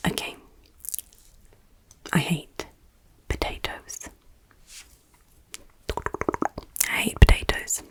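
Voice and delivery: hushed, playful quiz-game whisper. Acted. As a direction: whisper it intimately, close to the listener.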